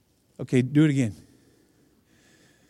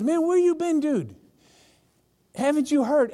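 casual dude talk; 9 semitones higher than usual. Retold or imitated. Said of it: "This is one of 'em".

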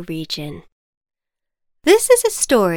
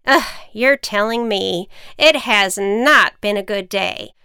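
grumbling witch; 2 semitones higher, 4 dB louder than usual. Acted. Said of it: "witch explaining to farmer".

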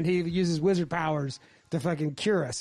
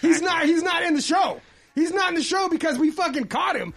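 laughing; 10 semitones higher, 5 dB louder than usual. Real, not acted. Laughing while telling wizard story.

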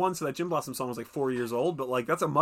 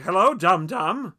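mock greeting; 3 semitones higher, 7 dB louder, slower than usual. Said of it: "I was like".

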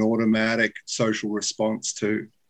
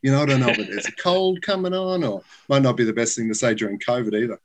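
mock over-earnest answer. Acts over-honest checkout answer.

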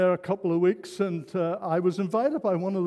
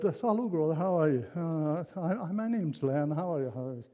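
soft, lower retold greeting; gently; 3 semitones lower, 4 dB quieter than usual. Preacher introducing himself to a fellow believer, gently. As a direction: greet him gently, trailing off softer. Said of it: "gently just said".

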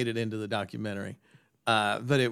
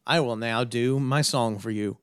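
lightly hammed-up stage announcer voice, a little louder; mock the singer's on-stage persona; a hint of a showman greeting the crowd; cheesy music guy; 5 dB louder than usual. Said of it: "they talk like this".

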